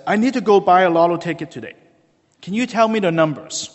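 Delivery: fast, loud, eager ask; eager pleading. Retold or imitated. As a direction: press him for the numbers. Ali begs lotto numbers.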